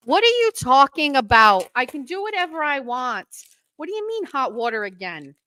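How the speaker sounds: high-pitched, defiant comeback; indignant protest. Real, not acted. Answering a warning about hot water, indignant. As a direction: push back in indignant disbelief. Mock-arguing with a viewer's warning.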